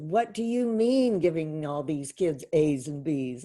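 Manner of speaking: mildly mocked indignation; indignant demand. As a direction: imitate an outraged colleague, leaning hard on the words. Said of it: "he came storming into my classroom".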